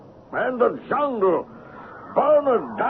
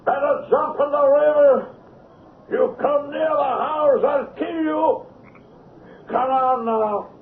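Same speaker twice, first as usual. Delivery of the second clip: menacing taunt; 4 semitones higher than usual. Acted. Madman stalks the chief outside.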